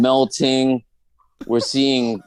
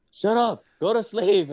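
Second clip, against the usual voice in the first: much higher, exasperated "shut up"; fed-up snap; 10 semitones higher than usual. Retold or imitated. Annoyed friend telling him to shut up and sleep, high snap. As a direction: cut him off, totally done.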